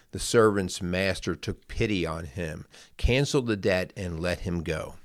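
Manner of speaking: measured, careful Bible reading aloud; scripture reading. Acted. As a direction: read the parable to listeners at an even pace. Reads Bible parable aloud.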